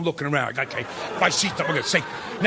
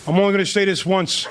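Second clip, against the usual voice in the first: tough guy voice; 2 semitones lower than usual. Retold or imitated. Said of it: "he said".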